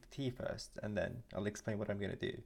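talking around a sip of tea; words between sips; while sipping a drink. Real, not acted. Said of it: "let me take a sip from my tea".

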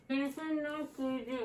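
muffled through tape over lips; mouth taped shut. Real, not acted. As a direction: talk with lips taped closed. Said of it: "ağzın bantlı".

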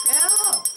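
"Belle" sung high and soft, pulled out of Bella; sounding out part. Shown as a demonstration. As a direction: lift "Belle" up high and hold it gently. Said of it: "Look at the first part".

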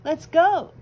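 loud eager agreement. Acted. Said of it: "agreed Pip".

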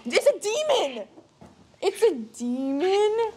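high, scared realisation; alarmed, half under the breath; frightened. Real, not acted. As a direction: ghost hunter spooked. Spooked by spirit box.

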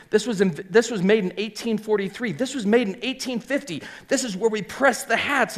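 high, eager tour-guide patter; acted-out eager pitch to visitors; eager show-off. Showing bankers his old equipment.

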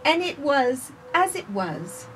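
gentle, measured storybook reading; reading to children. Acted. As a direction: read it slowly to little listeners. Reads picture book aloud.

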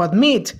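"admit" stressed on MIT; stress on last syllable. Shown as a demonstration. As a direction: lean on the final mit of "admit". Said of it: "el acento no es en la última sílaba". ("admit" con el acento en la última sílaba, ad-MIT)

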